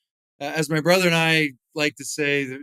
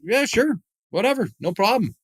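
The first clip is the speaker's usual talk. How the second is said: higher-pitched, easygoing yes; breezy agreement; 6 semitones higher than usual. Retold or imitated. Happily obliging an autograph seeker, breezy and higher. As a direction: wave it off lightly, pitched up.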